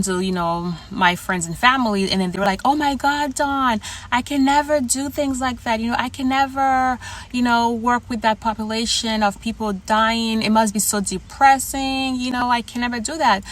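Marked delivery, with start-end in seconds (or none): 2.7-13.4 higher, aghast friend. Retold or imitated. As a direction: raise the pitch as the shocked friend. Friends told her about hospice work.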